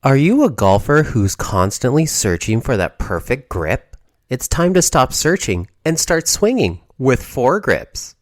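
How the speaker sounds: upbeat announcer pitch; cheesy radio ad voice; ad read. Acted. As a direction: sell the grips like a radio spot. Golf ad read.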